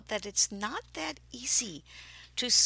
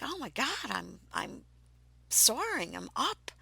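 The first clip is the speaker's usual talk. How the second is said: excited; 3 semitones higher, 4 dB louder than usual. Retold or imitated. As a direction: relive the rush of soaring. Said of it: "I was very excited".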